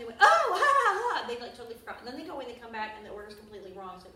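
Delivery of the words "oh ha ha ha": nervous mock laugh. Waiter who forgot her order, nervous hammed-up laugh.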